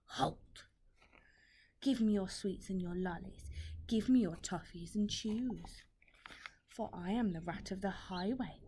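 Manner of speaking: a mild bellow at the ants; rat bellowing. Acted. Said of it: "who bellowed a deafening".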